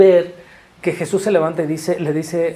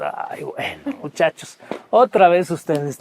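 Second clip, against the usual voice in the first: a hint of a sighing, worn-out teacher; lightly voiced, tired exasperation; weary Jesus; slower than usual. Preacher voicing Jesus, woken and fed up with the disciples. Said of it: "Y Jesús".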